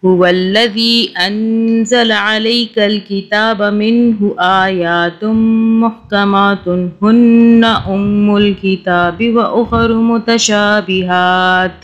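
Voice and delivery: measured melodic tilawat; Quran recitation. Acted. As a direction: recite the verse in steady chanted tajweed. (तिलावत के अंदाज़ में ठहरकर पढ़ना)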